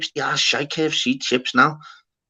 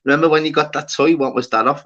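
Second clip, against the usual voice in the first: teasing wind-up. Retold or imitated. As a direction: lightly imitate a teasing girlfriend. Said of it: "to wind me up".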